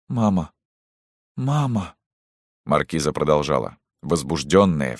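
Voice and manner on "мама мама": high, broken, helpless calls; crushed murmur. Acted. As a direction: whimper it, defeated. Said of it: "бормотала". (совсем убитая, бормочет)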